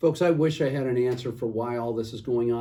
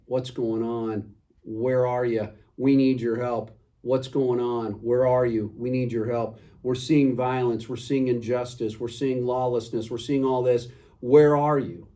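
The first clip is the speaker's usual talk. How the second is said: crying out to God. Retold or imitated. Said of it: "I've been crying out to God saying".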